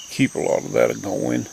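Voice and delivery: natural Appalachian mountain accent; easy Appalachian mountain dialect. Real, not acted. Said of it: "I kinda like my mountain dialect".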